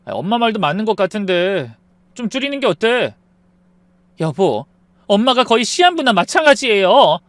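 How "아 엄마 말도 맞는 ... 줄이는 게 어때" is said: meek husband siding with mother; husband chiming in. Acted. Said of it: "남편이 거들었어요".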